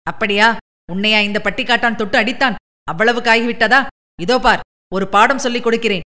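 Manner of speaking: understated angry roar; roaring threat. Acted. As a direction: threaten the villager, quick and hard. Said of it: "எஸ்ராஜ் கர்ஜித்துக் கொண்டே".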